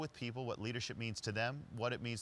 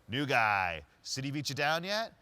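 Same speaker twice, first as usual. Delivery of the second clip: Larry's greeting; 3 semitones higher, 7 dB louder than usual. Retold or imitated. Larry greets the driver at the stoplight, loud teasing call.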